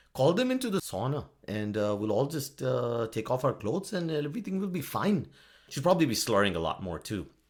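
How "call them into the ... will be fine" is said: stereotyped put-on Finnish accent. Voicing an imagined woman calling people into the sauna, in a stereotyped put-on accent. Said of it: "that accent that I'm doing".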